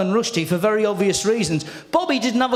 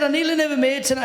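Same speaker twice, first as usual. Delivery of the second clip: quick, higher Scottish comic voice; hurried mimicry of a Scottish comic; Billy Connolly; 4 semitones higher, much faster than usual. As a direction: lightly impersonate a Scottish comedian, quickly. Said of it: "And then Billy says to me".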